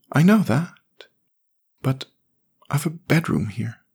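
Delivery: put-on high, boyish voice of a sad little boy; young boy voice. A narrator's reading. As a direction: read it as a small forlorn boy. Jamie speaks.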